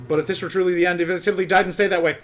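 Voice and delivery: dramatic narration. Acted. Reads game intro narration.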